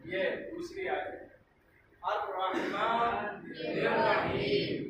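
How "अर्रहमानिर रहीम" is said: slow careless recitation; drawn-out wrong pronunciation of अर्रहमानिर रहीम; wrong Rahim. Shown as a demonstration. Teacher showing how not to recite अर्रहमानिर रहीम. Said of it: "इसी तरह अर्रहमानिर रहीम नहीं होना चाहिए".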